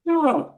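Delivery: high, sudden gasped "ah"; quick high gasp; startle gasp. Acted. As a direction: act out a startled intake of breath. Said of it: "all of a sudden you come".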